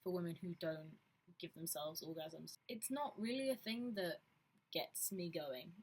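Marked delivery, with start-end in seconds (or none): 0.0-2.6 mildly mocking, condescending pity; patronizing. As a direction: imitate someone pitying others from above. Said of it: "in a really patronizing way".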